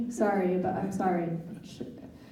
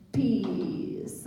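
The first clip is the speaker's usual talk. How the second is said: mock affirmation. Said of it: "phrases that she told me to say".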